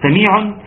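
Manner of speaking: "سميع" with the tanween pronounced; audible final noon. Shown as a demonstration. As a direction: sound the n ending on "سميع". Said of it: "ان بتنتهي بنون اهي".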